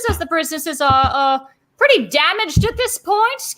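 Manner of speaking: lightly voiced constable coming clean; Barnabas, confessing. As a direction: blurt out the truth, done hiding it. Mall cop confessing the damage.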